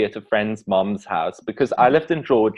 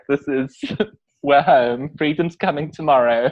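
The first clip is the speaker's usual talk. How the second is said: Whoopi Goldberg impression; 2 semitones higher than usual. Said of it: "She just left out all conjunctions and was like".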